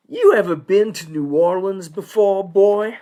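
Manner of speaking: lightly voiced disapproving good old boy; scowling judge. Judge questions an outside union lawyer, scowling and suspicious. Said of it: "he turns and scowls at me".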